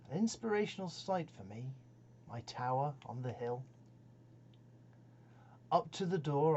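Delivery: lilting storytelling verse, pausing between phrases; narrative poem recitation. Acted. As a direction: recite your own verse as a tale unfolding.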